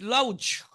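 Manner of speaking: লাউজ with an "ow" vowel and final j; spelling pronunciation. Shown as a demonstration. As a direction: misread laugh as লাউজ. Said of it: "এরকম কিছু একটা হবে".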